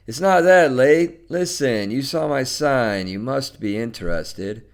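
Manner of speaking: lightly voiced pushy caller; insistent man.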